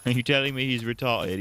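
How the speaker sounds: mock British accent, laughing. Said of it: "half British".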